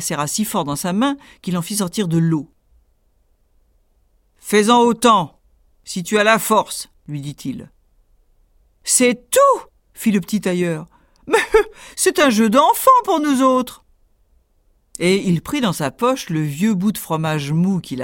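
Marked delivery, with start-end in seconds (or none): 4.4-6.9 louder, gruff giant challenge; challenging giant. Acted. 8.8-13.8 much higher, louder laughing scoff; cocky tailor. Acted. Tailor mocks the giant.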